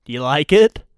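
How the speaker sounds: openly fishing for approval; eager asking. Real, not acted. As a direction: ask it out loud for approval. Host shows himself off, asks twice.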